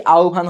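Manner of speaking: আহ্বান said as "au-bhan"; pronunciation demo. Shown as a demonstration. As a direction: say আহ্বান with an "au" glide and a breathed bh. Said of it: "এর উচ্চারণ কি?".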